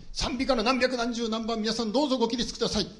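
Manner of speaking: high, formal call to the congregation; mock hymn announcer. Preacher mimics service leader calling hymn number, mock-formal announcing.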